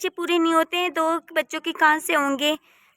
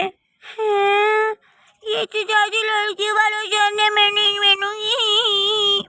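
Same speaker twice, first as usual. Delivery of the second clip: higher voice, words broken by giggles; laughing; 4 semitones higher, slower than usual. Real, not acted. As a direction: laugh through the refusal. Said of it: "बहुत हंसी आ रही है तुम्हें". (हँसते हुए मना करना)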